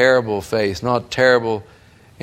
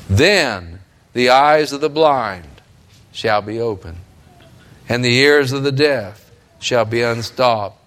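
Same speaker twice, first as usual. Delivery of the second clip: solemn scripture reading. Acted. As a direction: read it like a proclamation. Reads Isaiah with weight.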